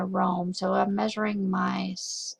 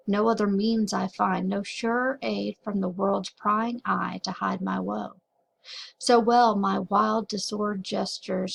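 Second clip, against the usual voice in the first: measured recital carried on past line breaks; flowing poem reading. Shown as a demonstration. Teacher showing students the poem's flow, flowing poem reading. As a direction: read verse aloud, pausing only at punctuation. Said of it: "example of what this would sound like".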